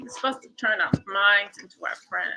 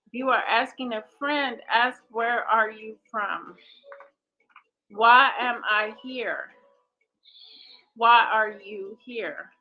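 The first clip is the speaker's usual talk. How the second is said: deliberate read-aloud; 7 dB louder than usual. Acted. Facilitator reading questions for friends to ask, deliberate read-aloud.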